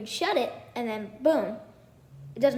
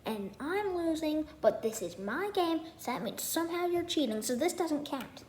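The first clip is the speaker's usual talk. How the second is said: whiny protest; 6 semitones higher than usual. Retold or imitated. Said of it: "Thomas was like".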